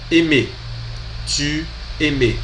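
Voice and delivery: aimer said eh-MEH; model pronunciation. Shown as a demonstration. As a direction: drill Tu aimer for learners. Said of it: "Pronunciei também para vocês treinarem".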